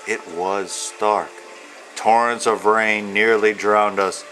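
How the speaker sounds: steady, rhythmic read-aloud of rhyming verse; reading to children. Acted. Author reading his picture book to young children, rhythmic storyteller voice. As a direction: lilt through the rhymes like a bedtime book.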